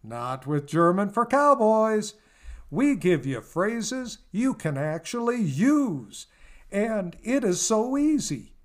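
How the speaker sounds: folksy, booming radio ad pitch; ad announcer. Acted. Announcer pitching a language course to cowboys, booming ad read. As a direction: sell it like a late-night cowboy commercial.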